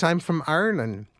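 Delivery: a hint of an Irish lilt, stated plainly; just a touch of brogue, matter-of-fact; light Irish accent. First Irishman answering in a mild Irish accent. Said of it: "identify with the accent".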